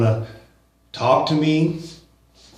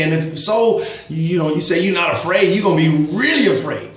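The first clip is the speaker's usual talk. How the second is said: emphatic, serious; 2 semitones higher than usual. Retold or imitated. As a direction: press the point as if pleading with him. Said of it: "getting really emotional in my speech, I'm really being emphatic".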